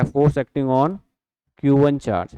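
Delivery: steady, slow full phrase; slow reading. Shown as a demonstration. Teacher offers the other way to read it, slowly. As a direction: read it as one flowing phrase. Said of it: "ऐसे पढ़ेंगे".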